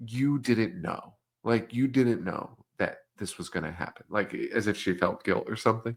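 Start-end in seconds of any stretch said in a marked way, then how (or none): 0.1-4.0 compassionate. Retold or imitated. Cop consoling a girl who feels guilt, compassionate. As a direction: lightly act out absolving someone of guilt. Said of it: "a moment of, like, compassion".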